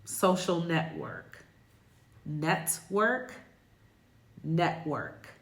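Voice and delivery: network with the T a brief throat stop, ne'work; glottal T. Shown as a demonstration. Teacher modeling network with a glottal T. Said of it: "another example for a word like".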